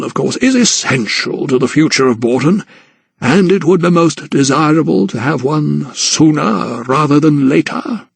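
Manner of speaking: lightly voiced patronising guardian; Sir Montague, lightly voiced. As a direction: narrator lightly playing a condescending old aristocrat.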